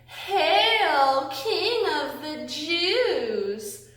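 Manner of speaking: a mild mocking taunt, the last words drawn out slowly; mock hail. Soldiers taunting Jesus in the story, mild mocking hail. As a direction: jeer at him lightly, like the soldiers mocking a king.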